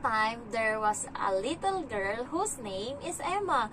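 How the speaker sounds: slow, sing-song little storyteller; stretched, swooping storybook lilt; child telling a story. Retold or imitated. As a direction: imitate a child drawing out a fairy-tale opening. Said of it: "sabi niya".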